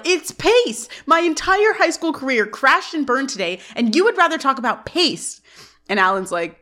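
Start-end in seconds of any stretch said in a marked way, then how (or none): 0.1-5.4 retold teenage outburst, pitched up; interrupting yell. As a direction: cut in with an indignant, higher-pitched outburst. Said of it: "Corey interrupts to yell".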